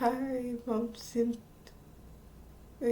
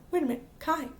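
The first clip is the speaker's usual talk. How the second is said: higher, questioning double-take; mock disbelief; 5 semitones higher, much faster than usual. Friend barely recognizes the girl at school, mock disbelief. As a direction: act out a friend's mild astonishment. Retold friend amazed by the change.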